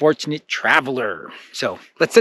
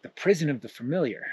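softer, dismayed repeat of the sign; quiet dismayed echo; 7 dB quieter, faster than usual. Acted. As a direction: mutter it back in dismay. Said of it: "He's like".

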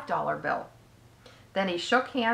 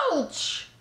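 high, drawn-out ouch; mild mock scream; 7 semitones higher than usual. A narrator's reading. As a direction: yelp it in storybook pain, not full volume. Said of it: "and he screamed".

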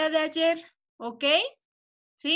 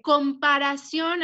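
"comparación" slowed, ending on a rise; slow dictation; 3 dB louder than usual. Shown as a demonstration. Teacher giving the answer for self-checking, slow dictation. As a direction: say "comparación" slowly and carefully for checking. Teacher gives spelling word to pupils.

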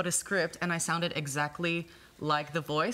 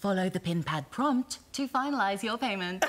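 lightly voiced checkout machine; calm automated payment prompt; self checkout prompts; 3 semitones higher than usual. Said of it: "Can you just do one more?".

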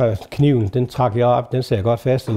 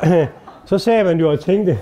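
normal talking voice

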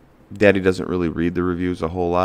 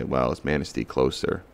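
puzzled driver; 3 semitones lower, 4 dB quieter than usual. Retold or imitated. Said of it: "they're gonna flip a coin and say".

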